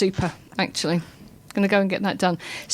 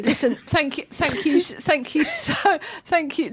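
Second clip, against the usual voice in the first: giggles; 3 semitones higher than usual. Real, not acted. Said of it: "Now we've got the giggles".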